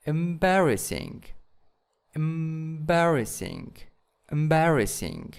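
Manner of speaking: "embarrassing" stressed on BAR; stress demonstration. Shown as a demonstration. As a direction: lean on the second syllable of "embarrassing", falling after it. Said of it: "Where is the stress".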